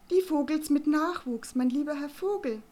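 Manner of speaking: loud, high, trumpeting matron; blaring. Acted. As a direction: belt it out across the path. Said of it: "schmetterte Frau Kloß". (schmetternde, laute, hohe Matronenstimme)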